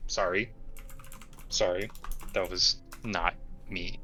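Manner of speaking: slow, whispered, apologetic tone. Voicing a character who snapped, now looking up: very apologetic. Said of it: "very apologetic".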